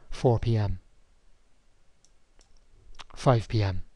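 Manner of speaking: deliberate dictation to the computer; slow dictation with punctuation. Shown as a demonstration. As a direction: dictate clearly, saying each command. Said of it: "the new appointment command".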